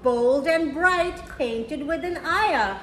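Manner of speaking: gentle rhyming storybook read; reading to children. A narrator's reading. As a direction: read it slowly to little kids, savouring each rhyme. Reads picture book to children.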